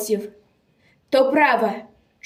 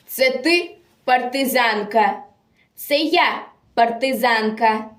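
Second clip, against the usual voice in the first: measured, theatrical verse delivery; dramatic poem recitation. Acted. Reciter tells of a captured partisan girl, dramatic declamation. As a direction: declaim a solemn war poem with feeling.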